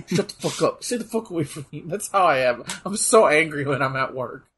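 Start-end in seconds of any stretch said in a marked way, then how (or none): 0.1-1.8 muttered under the breath, fast. Retold or imitated. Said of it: "I'm like, under my breath".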